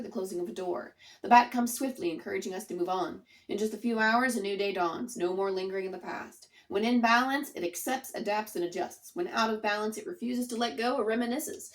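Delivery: measured read-aloud of the card meaning; reading the card text. Acted. Tarot reader reading the bat card aloud to viewers, measured reading. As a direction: read it out like a passage from the book.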